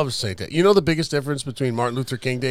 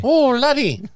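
mock Scottish; 12 semitones higher, slower than usual. Playing with Scottish word.

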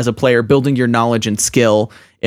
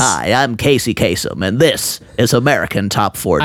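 Casey Kasem; 2 semitones lower than usual. Retold or imitated. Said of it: "that's my Casey Kasem voice".

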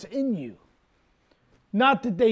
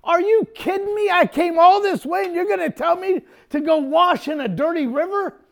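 high-pitched, incredulous protest; mock indignation; 6 semitones higher than usual. Preacher acting out Naaman told to wash in a dirty river, indignant. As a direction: act out an offended man's outburst. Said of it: "He gets mad. He's like".

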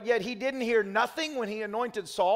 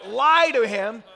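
preaching that builds to a shout; mock preacher; 4 dB louder than usual. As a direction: preach it louder and louder. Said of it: "imagine if you came to church and my message was".

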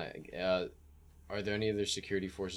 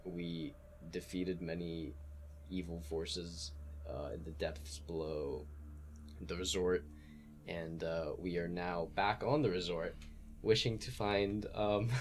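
formal message voice; 3 semitones lower, slower than usual. Acted. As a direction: dictate it slowly like a careful message. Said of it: "I'm gonna say".

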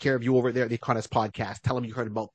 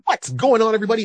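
loud, high hype shout to the audience; booming greeting; 8 semitones higher, 6 dB louder, faster than usual. Acted. Podcast guest greeting the listeners with a big loud shout. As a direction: blast out the hello like a showman.

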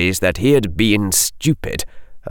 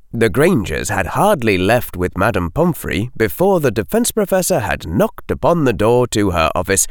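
ordinary delivery, nothing marked

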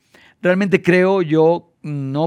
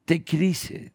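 soothing; 2 semitones lower, 9 dB quieter than usual. Retold or imitated. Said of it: "y dijimos".

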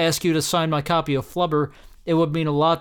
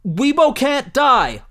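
mock despair; 8 semitones higher, 5 dB louder, slower than usual. Reading all-caps tweet.

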